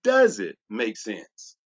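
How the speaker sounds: slow, dropped pitch on "Does it make sense", pressing on "Does"; low pointed question. Shown as a demonstration. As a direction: sink the voice and ask it slowly, driving the point home. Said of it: "Can I ask you this question?".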